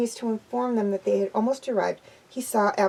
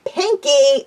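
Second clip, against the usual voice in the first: louder, exasperated yell; 5 semitones higher, 7 dB louder than usual. A narrator's reading. The friends yelling at Pinkie, loud and fed up. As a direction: call her name out, fed up. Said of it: "every pony yelled".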